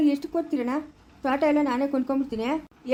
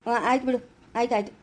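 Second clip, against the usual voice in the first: low, dismissive giving-in; placating; 4 semitones lower than usual. Acted. Man tells the nagging woman all right, placating. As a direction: agree just to end the scolding, pitched low.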